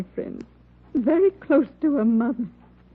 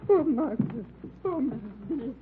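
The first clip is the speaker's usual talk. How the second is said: fading grief; 7 dB quieter than usual. Acted. Neighbour leaving, still grieving.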